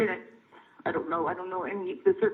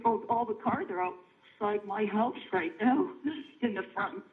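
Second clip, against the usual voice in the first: shaking; slower than usual. Real, not acted. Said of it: "Sorry, I'm just shaking".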